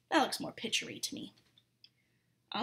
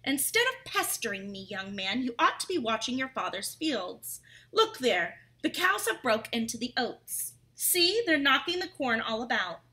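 sharp answer. Acted. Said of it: "answered Tom sharply".

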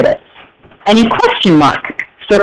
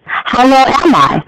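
higher question take; 5 semitones higher, slower than usual. Shown as a demonstration. Teacher repeating the line to show a question's rise. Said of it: "your voice raises higher in pitch when you have a question".

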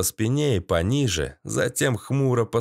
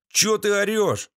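high angry yell; Valera yelling; 9 semitones higher than usual. A narrator's reading. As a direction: snap back in the dark. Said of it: "заорал Валера".

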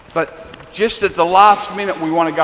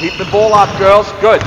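calling out; 5 dB louder than usual. Real, not acted. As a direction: coach calling across the court, louder. Coach calling to players on court.

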